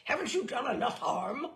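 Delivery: loud, outraged bluster; bristling with rage. A narrator's reading. General blusters at the narrator, loud and outraged. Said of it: "he blustered".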